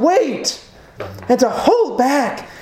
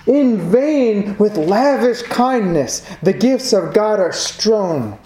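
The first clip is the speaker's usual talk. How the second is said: slow, measured reading of verse; unhurried, solemn hymn verse; hymn recitation; 3 semitones lower than usual. Acted. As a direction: recite the hymn lines slowly and deliberately.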